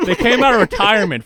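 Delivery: high, quick line through laughter; laughing. Real, not acted. Player adds to his silly crew list, laughing. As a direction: crack up at your own joke.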